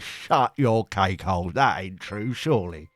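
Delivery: slow, put-on incredulous retort; hammed-up scoffing disbelief; mock disbelief. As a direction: drag it out in a put-on voice. Acted disbelieving retort to rain fact.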